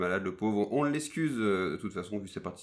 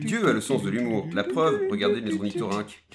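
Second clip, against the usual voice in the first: reading the title card; 6 dB louder than usual. Acted. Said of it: "c'est moi le premier extrait, quoi, qui fait le lire".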